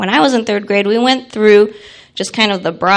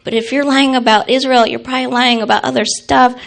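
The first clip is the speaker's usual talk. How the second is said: building louder, ending in a laugh; indignant child scolding; 3 semitones higher, 5 dB louder than usual. Retold or imitated. Child telling off her teacher, rising loud and indignant. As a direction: scold the teacher like a righteous kid. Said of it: "I said".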